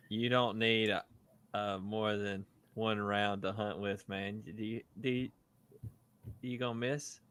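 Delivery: slow, teasing sarcasm with a laugh at the start; sarcastic. Real, not acted. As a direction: needle a friend sarcastically, drawing it out. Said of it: "I'm just being sarcastic".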